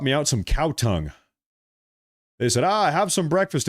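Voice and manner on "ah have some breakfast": lightly imitated German accent, pitched higher; mock German accent, raised in pitch. Retelling the in-laws offering breakfast, mock German accent. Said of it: "in their German accent".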